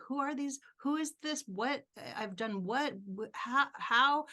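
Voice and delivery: replaying the shock of the award call; stunned disbelief. Caller reveals the award, she blurts out stunned questions. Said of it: "I'm like".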